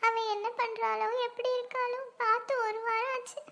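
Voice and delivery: acted, mildly weepy complaint; tearful worry. Mother explaining she misses her daughter, tearful worry. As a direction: draw the words out in a tearful lament. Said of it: "ஏன் இப்படி அழுதுட்டு இருக்கீங்க".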